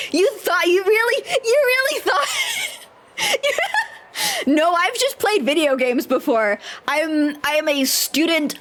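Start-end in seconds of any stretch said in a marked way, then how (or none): 0.1-4.5 rising disbelief, pitch climbing to a near shout; you really thought that?; incredulous. Real, not acted. Teasing disbelief at friend's claim. 4.5-4.7 high burst of laughter into no; laughing. Real, not acted. Laughing at own claim.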